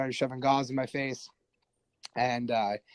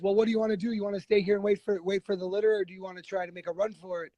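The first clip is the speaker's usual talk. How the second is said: imitating the first sergeant; 6 semitones higher, faster than usual. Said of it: "he goes".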